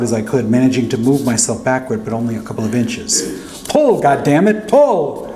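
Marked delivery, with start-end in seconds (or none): 3.7-5.3 high desperate yell, climbing on the last pull; screaming. Retold or imitated. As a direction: scream the order with everything you have. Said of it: "Uncle Chick screamed".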